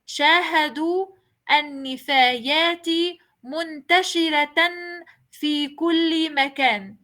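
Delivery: منتشرة said muntashirat, flowing into في كل مكان; continuous reading with ta. Shown as a demonstration. Teacher rereading to show the ta kept. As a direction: keep the ta in منتشرة while reading on. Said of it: "Cuando seguía leyendo ... la misma ta".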